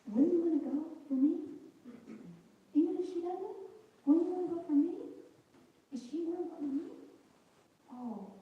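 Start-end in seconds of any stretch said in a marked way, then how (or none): 0.1-6.8 high, loud, urgent asking; God's voice raised high and loud, asking for devotion; voice of God pleading. Retold or imitated. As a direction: plead from above, pressing each question. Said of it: "He was saying".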